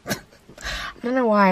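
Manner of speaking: laughing, slow. Real, not acted. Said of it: "I don't know why I always say it".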